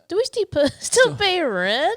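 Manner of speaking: breaking into laughter mid-question; laughing while asking. Real, not acted. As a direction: laugh through the words. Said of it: "You almost said, "Do we still pee rent?".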